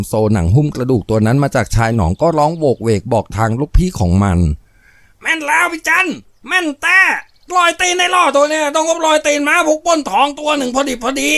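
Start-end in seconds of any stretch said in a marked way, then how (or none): 4.8-11.3 high shouted yokel henchman voice; henchman calling out. Acted. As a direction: holler it from far across the field. Henchman Teng calls out to boss.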